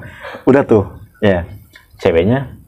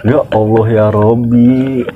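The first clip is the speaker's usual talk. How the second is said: exasperated; slower than usual. Real, not acted. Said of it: "exasperated exclamation".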